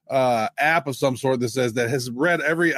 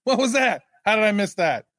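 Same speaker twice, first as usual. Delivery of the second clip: higher, bewildered mock voice; mock stunned executives; 6 semitones higher than usual. Co-host mimicking stunned CIOs, high bewildered voice. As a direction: play the caught-out CIO, dazed. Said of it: "are gonna say".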